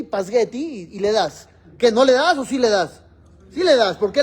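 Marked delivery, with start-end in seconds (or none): 0.0-0.9 pasgueti with the sp swapped to sg; child's mispronunciation. Shown as a demonstration. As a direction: say pasgueti like a toddler. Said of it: "el niño en vez de espagueti". (pasgueti como lo dice un niño pequeño)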